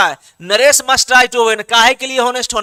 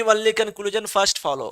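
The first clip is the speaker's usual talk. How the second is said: slow dictation; 3 semitones lower, 9 dB quieter, much slower than usual. Shown as a demonstration. Teacher dictates answer slowly.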